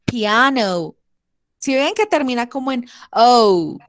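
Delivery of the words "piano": piano ending in a little U sound; O with a small U. Shown as a demonstration. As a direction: close piano's O toward U. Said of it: "la O la hacemos con una U chiquita".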